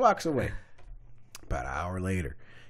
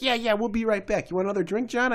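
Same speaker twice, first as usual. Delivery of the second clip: higher-pitched mock reassurance; lightly mimicked girlfriend brushing him off; imitating the women; 11 semitones higher, 4 dB louder than usual. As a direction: imitate a breezy, insincere excuse. Mimics women making an excuse.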